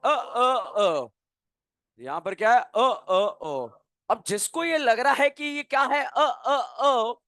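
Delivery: imitating a student who stalls on every step; stammering student lampooned by the teacher; mock stammering student. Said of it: "तो भाई बहुत बड़ी बीमारी है".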